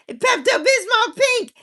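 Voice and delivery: high, slow cry of disbelief; shocked high-pitched outburst; appalled exclamation. Real, not acted. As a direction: squeal it out, appalled. Outraged at the pink house.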